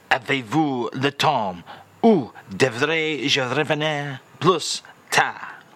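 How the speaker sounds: slow, careful French phrase demo; slow French phrase read. Shown as a demonstration. The speaker reads out the French phrase of the day, slowly. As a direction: present it as a lesson phrase. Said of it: "Hit me with it one more time".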